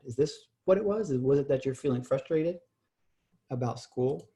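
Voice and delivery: gentle checking question, pitch lifting at the start. Shown as a demonstration. Parent checking with frustrated son, questioning tone. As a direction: ask it as a real question, unsure of the answer. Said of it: "So that questioning tone is important".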